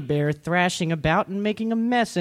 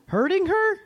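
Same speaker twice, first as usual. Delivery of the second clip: said quickly; 13 semitones higher than usual. A narrator's reading. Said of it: "Papa Bear said quickly".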